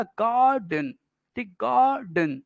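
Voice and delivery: गार्डन in two measured beats, "gaar" then "den"; teacher's two-beat गार्डन; two-syllable demonstration. Shown as a demonstration. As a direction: sound out गार्डन slowly as gaar-den, falling on the second beat. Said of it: "दो syllable समझ में आया ना".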